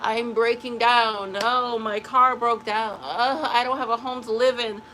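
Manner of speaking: slow, drawn-out poor-me whine; mock someone crumbling at every setback; hammed-up self-pity; mock whiny victim. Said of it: "You don't see them and be like".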